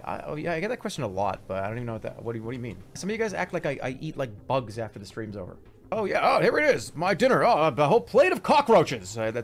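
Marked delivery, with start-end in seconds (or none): 5.9-9.2 high, louder gleeful relish; mock delight. Streamer pretends bugs are his dinner, mock delight. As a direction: gush over it in hammed-up delight. Mocking claim that he eats bugs.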